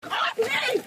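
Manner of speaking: real panicked shout. Real, not acted. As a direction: yell at them to get off. Struggling against arrest.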